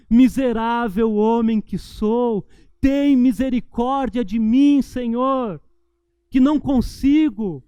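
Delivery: slow, loud, pleading cry to God; the humble man in the temple, pleading slowly; humble pleading prayer. Acted. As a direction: beg for mercy, broken and slow.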